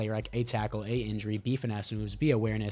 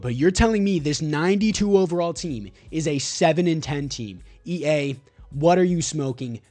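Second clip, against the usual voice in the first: loud frustrated ranting at the game maker; angry rant; 4 semitones higher, 5 dB louder than usual. Real, not acted. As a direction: vent loudly about a rigged season. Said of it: "sorry for that rant".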